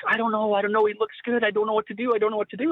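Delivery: high, fretful voice of an unsure wife; imitating dithering wife. Wife dithering on shooting sticks.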